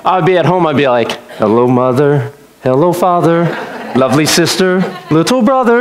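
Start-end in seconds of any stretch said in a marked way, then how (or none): 1.4-5.8 put-on sweet, well-behaved child; mock politeness. Preacher acting his innocent self greeting family at home, mock polite. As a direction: greet each one with careful, innocent politeness. Goody-good at home, acted contrast.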